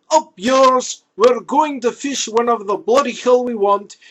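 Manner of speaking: loud, defiant Scotsmen shouting. Retold or imitated. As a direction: shout it back like angry fishermen. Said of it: "Scotsmen everywhere say".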